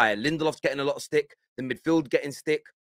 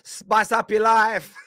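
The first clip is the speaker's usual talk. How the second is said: slow, high, loud sing-song repeat of the punchline; mocking echo; 6 semitones higher, 4 dB louder, much slower than usual. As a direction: stretch it out, laughing at the line.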